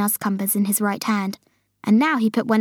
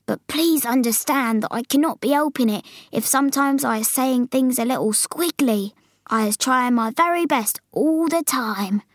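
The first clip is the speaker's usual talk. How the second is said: lightly voiced giant, a little higher; BFG pleading; 3 semitones higher than usual. Giant excusing his squiggly words to Sophie, pleading. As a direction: plead gently for understanding.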